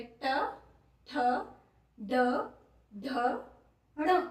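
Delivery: ट, ठ, ड, ढ, ण said singly, so students can feel where the tongue goes; sounding out letters. Shown as a demonstration. Teacher shows students where the tongue touches, distinct. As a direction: slowly sound out each letter. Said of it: "उच्चारण करके देखो".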